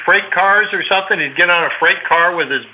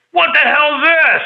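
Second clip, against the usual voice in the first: a high, slow, indignant "what the hell"; indignant surprise; 11 semitones higher, 3 dB louder, slower than usual. Retold or imitated. Angry owner spotting his painted helmet, high and indignant. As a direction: stretch it out high, shocked and put out.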